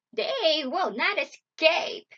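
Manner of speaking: slow, loud, gloating witch; evil witch cry. A narrator's reading. Witch smells the children approaching, evil gloating cry. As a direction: cry it out high and drawn out. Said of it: "she laughed an evil cackle and cried".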